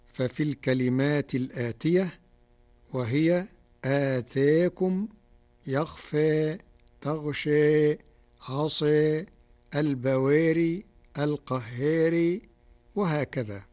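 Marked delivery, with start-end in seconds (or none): 3.8-12.4 long vowels tilted slightly toward "e", slowly; reduced imala. Shown as a demonstration. Teacher listing Warsh's taqlil words for listeners, slow demonstration. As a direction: say "آتاكم", "يخفى", "القهار" with a light imala, each word slow. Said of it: "أما المقلل".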